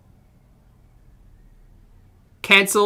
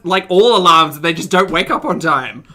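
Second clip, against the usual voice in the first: louder, panicked worrying aloud; anxious panic; 3 semitones higher, 5 dB louder than usual. Real, not acted. Streamer fears having cancelled someone's alarms, panicky. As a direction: spiral into alarm, pushing the volume up. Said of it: "Anxiety, panic".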